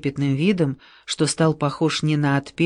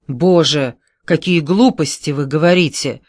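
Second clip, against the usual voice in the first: sudden anger; 4 dB louder than usual. Acted. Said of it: "вдруг рассердился Бэйр".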